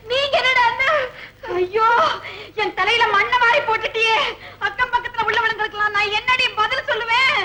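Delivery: wailing reproach. Acted. Parent laments daughter's blunder.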